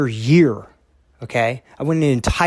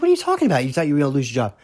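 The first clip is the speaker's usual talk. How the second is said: retold shocked disbelief; much faster than usual. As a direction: act out how stunned you were. Shocked reply to crying boss.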